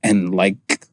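slow, low put-on outro voice; drawn-out running voice sign-off. Real, not acted. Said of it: "I don't know why I'm talking like this".

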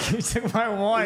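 slow high laughing complaint. Real, not acted. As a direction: laugh through it slowly. Laughs, word stolen.

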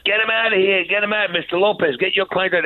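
half-shouted command from the bench; retold judge yelling. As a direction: judge yelling at the lawyer to get his client out, mock yell. Judge banging the gavel.

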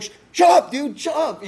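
high, strained mock shushing; urgent shushing. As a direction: frantically hush a buddy so the cop won't hear. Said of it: "I don't want the cop to hear that".

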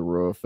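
"roof" with a short vowel, as in foot; short clipped-vowel "roof", close to "ruff"; Midwestern roof. Real, not acted. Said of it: "said roof like you were from the Midwest".

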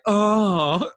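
high-pitched moan ringtone; mock moan. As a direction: let out a silly high moan. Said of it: "like, a moan".

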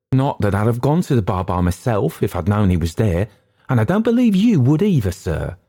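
high, rattled waiter's account; frightened waiter. Acted. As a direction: pitch climbing as the fright returns.

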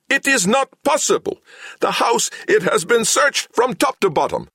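squeaky, very high mechanical outrage; furious robot. A narrator's reading. Samhet insists the house was searched, furious squeaky robot voice. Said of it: "adding to his fury".

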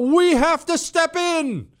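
high, slow pompous demand; mock hawk. Host mocking chicken hawks, high slow pompous voice. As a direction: sneer it like a armchair warrior. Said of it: "run your mouth about".

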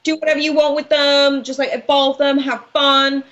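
playfully hammed-up Shakespeare, handing out goodies. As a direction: toss it out like a breezy, generous wordsmith. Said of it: "Bill Shakespeare shows up and he's just like".

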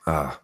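refreshed "ah" after a sip; satisfied exhale after drinking; while sipping a drink. Real, not acted. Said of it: "let me have a sip".

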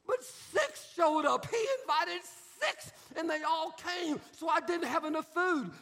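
a touch of mock indignation; lightly voiced young wife. Young wife telling her pastor about the party, mildly aggrieved. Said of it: "The young wife".

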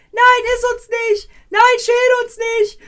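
high, loud, panicked little melon shriek; squealing melon scream. Retold or imitated. Melons begging the cook not to eat them, high shrieking. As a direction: scream it like a tiny vegetable begging for its life. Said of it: "und die schreien halt".

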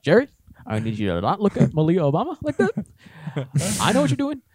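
lightly voiced Obama, measured and pausing; a hint of presidential Obama cadence; Obama impression. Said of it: "how good my Obama was".

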